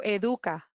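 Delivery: Educa said the Spanish way, eh-DOO-kah; Spanish derivation. Shown as a demonstration. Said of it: "to get education".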